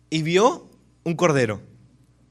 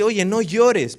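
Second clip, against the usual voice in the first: brusque hushing; 6 semitones higher, 5 dB louder, much slower than usual. Retold or imitated. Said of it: "uno de los ancianos le dice".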